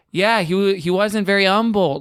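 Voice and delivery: humble said without its H, as "umble"; dropped H in humble. Retold or imitated. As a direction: start humble on the vowel, like "UM-bul". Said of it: "we would pronounce the word as we did the location".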